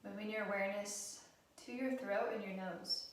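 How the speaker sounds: calm, even guided-meditation delivery with long pauses; guided relaxation. Acted. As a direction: gently guide them through breath awareness, unhurried. Leads a guided breathing relaxation.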